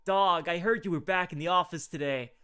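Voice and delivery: lazy stoner bro voice. Acted. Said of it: "I guess we're doing stoner voice today".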